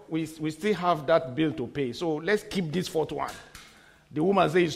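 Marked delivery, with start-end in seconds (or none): 0.1-3.3 low, soft mock persuasion; coaxing husband. Husband persuading wife to be wise, quiet mock coaxing. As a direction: lower the voice and sound oh so reasonable.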